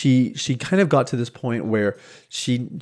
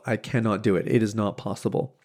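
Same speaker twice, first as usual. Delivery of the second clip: self-doubt; 5 dB quieter than usual. Retold or imitated. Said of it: "she told herself".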